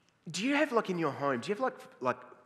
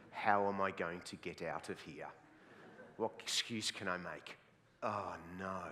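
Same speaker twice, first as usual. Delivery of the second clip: mock panic; 6 semitones lower, 5 dB quieter than usual. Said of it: "who are going".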